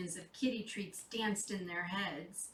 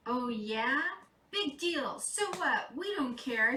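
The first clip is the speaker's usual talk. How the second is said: defiant cat; 2 semitones higher than usual. Acted. Fiona the cat talking back to Santa, sassy. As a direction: toss it off like a bratty cat. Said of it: "said Fiona".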